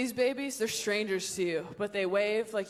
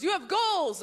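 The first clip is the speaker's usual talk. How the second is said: louder, higher scolding inner voice; nagging inner brain; 6 semitones higher, 4 dB louder than usual. Acted. Comic voices her own nagging brain, insistent. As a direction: push it like a nagging conscience. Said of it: "my brain goes".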